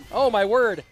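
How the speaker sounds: loud, high, stretched excitement; excited shouting. Real, not acted. Streamer watching the match, shouting excitedly. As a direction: yell at the screen, hyped.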